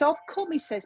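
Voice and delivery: lightly imitating a surprised visitor; relaying his surprise. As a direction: pass on his words with a touch of surprise. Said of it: "he's quite surprised, this is how he's saying it".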